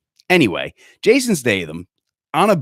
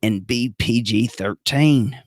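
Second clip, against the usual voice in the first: hammed-up action movie delivery; movie person voice; 2 semitones higher, slower than usual. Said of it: "That was me being a movie person".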